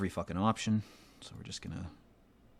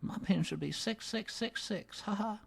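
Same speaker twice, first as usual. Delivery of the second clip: mock sly joke; 14 semitones higher, 3 dB quieter than usual. Real, not acted. Joking about evil pin.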